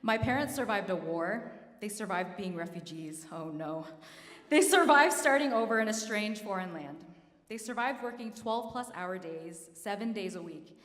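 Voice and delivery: choked up, pushing on through the words; fighting back tears. Real, not acted. Award winner thanking parents for surviving war, trying not to cry. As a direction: hold off crying while honouring your parents. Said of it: "I'm gonna try not to cry".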